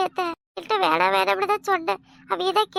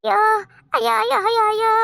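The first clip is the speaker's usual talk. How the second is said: wailing; 4 semitones higher than usual. Acted. Wife wails in despair outside the house. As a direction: wail in despair.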